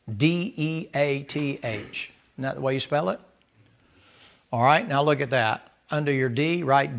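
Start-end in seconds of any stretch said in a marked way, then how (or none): 0.1-2.1 spelled out slowly. Shown as a demonstration. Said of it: "Do it in capital letters".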